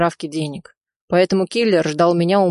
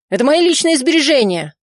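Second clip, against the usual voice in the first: much higher, louder protest; indignant shriek; 8 semitones higher, 5 dB louder than usual. A narrator's reading. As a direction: shriek that it's your money. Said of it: "завизжал он".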